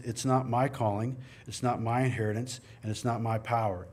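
"not" leaned on each time in "it's not my calling"; stress on not. Shown as a demonstration. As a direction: hit "not" in every phrase. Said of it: "It's all his".

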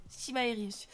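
Chimarius with an "aï" glide in the middle, si-maï-russe; retry "Chimarius" as si-maï-russe; struggling pronunciation. Real, not acted. Streamer struggling with a new viewer's pseudo, muddled pronunciation. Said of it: "je galère avec vos pseudos".

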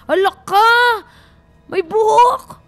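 high, loud shocked outburst; startled alarm. Real, not acted. Player spotting hair in the haunted house, alarmed. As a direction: exclaim in sudden fright, pitch jumping up.

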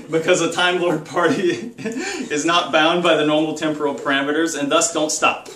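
a laugh breaking into the joke; laughing through it. Real, not acted. Vlogger signing off a party video to viewers, laughing. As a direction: chuckle partway through the line. Joking sign-off, laughing mid-line.

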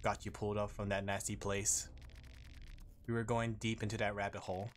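lightly voiced monotone mysterious greeter; measured, restrained game-character narration. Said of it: "I gotta put my monotone voi".

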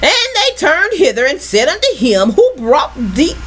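measured preacher's reading; scripture reading. Acted. Preacher rereads travellers' question to congregation, scripture reading. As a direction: read it out deliberately, word by word.

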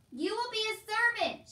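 high, loud, sustained shout; emphatic shout. A narrator's reading. Soldier repeating it for hard-of-hearing Meg, shouting. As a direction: shout it so it sinks in. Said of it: "shouted the soldier".

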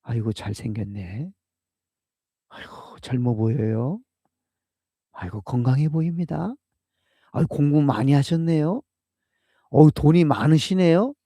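flattering small talk. Retold or imitated. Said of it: "보통 사람들이 하는 말이 그렇잖아요".

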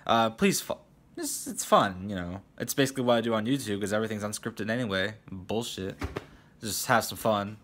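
talking while slamming the desk; banging the desk. Real, not acted. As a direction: thump the desk mid-sentence. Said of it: "I need to stop slamming the desk".

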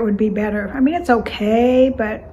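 mug against lips; speaking into a cup; talking while sipping. Real, not acted. Seen 0: Mug pressed to lips from 1.8s while she keeps talking.

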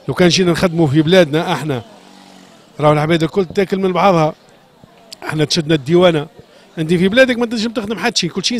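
loud, heated complaint; angry outburst. Real, not acted. Shoemaker to the reporter about customs seizures, loud and angry. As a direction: raise your voice in frustration at the state.

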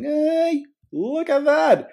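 high squeal of surprise; surprised. Real, not acted. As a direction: shriek it, suddenly startled. Surprised at received hi.

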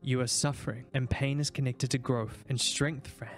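put-on deep-ish measured old man; old doctor voice. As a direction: speak like a cold scheming old scientist.

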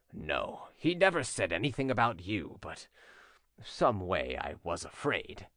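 low-pitched, hesitant admission; sheepish suitor. Acted. Voices Jeannin admitting his fear.

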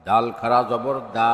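final "দা" held long; drawn-out vowel. Shown as a demonstration. Teacher demonstrating khara jabar, long "দা". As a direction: stretch the last "দা" for one alif. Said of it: "একালিপ টেনে পড়তে".

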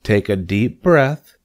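slow, encouraging spider; smiling. A narrator's reading. Spider coaches the pig, smiling. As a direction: coach it with an audible smile. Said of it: "said Charlotte, smiling".

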